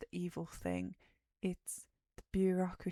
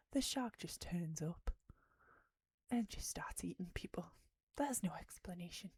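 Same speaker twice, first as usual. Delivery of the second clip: spooky whisper; 4 dB quieter than usual. Acted. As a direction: whisper it like a campfire scare. Spooky point about the shark.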